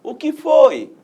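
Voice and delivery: high, loud startled "O que foi?"; light comic surprise; startled question. Acted. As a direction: ask it like a scared kid. Cebolinha asks again, startled.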